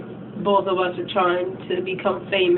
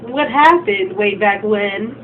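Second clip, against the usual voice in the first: smug; 6 semitones higher, 4 dB louder, slower than usual. Retold or imitated. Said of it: "she was all like".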